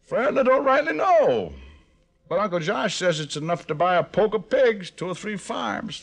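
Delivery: put-on Arkansas country accent; country hick act. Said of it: "How about a Swedish dialect?".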